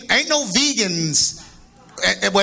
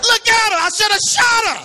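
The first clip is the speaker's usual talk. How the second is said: retold outburst; 12 semitones higher, 3 dB louder than usual. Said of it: "I said".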